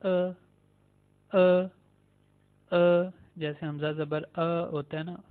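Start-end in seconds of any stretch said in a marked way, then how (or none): 2.7-3.1 "अ" short and unstretched. Shown as a demonstration. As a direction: clip "अ" short. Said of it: "ज़्यादा लंबा नहीं हम करते". ("अ" छोटा, लंबा नहीं)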